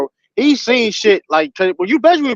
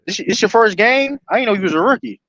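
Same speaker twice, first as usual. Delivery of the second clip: teasing coach; 4 semitones higher than usual. Retold or imitated. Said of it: "I'll be that type of coach".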